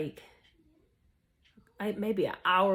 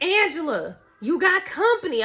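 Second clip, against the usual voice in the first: higher-pitched mom calling out; retold mama calling; 7 semitones higher, 4 dB louder than usual. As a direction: call her in, pitched up. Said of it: "She like".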